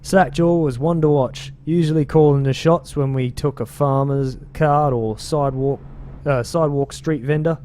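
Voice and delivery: put-on British accent drifting but kept going. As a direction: gang narrator in a slipping British accent. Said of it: "I'm not even sure if this is a British accent anymore".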